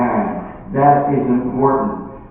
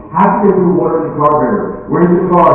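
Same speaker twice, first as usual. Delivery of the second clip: mildly exasperated, raised-pitch questioning; exasperated husband; 4 semitones higher, 3 dB louder than usual. Acted. Husband questioning his wife about the car, exasperated. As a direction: challenge it with rising disbelief.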